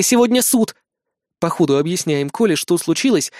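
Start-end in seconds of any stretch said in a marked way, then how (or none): 0.0-0.7 raised, pressing "сегодня суд!"; mildly alarmed reminder; urgent exclamation. A narrator's reading. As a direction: hurry them along with a lifted voice. Urging Kolya to hurry.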